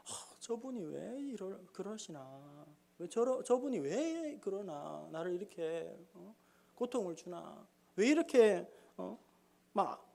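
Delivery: soft, weary inner grumbling; quiet frustrated sigh. Retold or imitated. Pastor muttering about troublesome church members, softly and wearily. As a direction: mutter your puzzled complaints under your breath. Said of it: "제가 답답하고".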